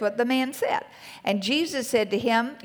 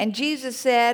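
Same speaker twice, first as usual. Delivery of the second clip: ordinary talk, nothing marked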